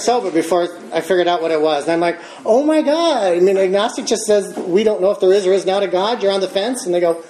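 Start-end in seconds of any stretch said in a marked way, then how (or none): 2.4-6.8 excited realization. Retold or imitated. Discovering what agnostic means.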